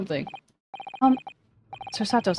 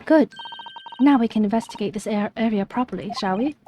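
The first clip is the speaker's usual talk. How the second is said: cheerful. Acted. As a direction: lift up, pleased. Companion pleased.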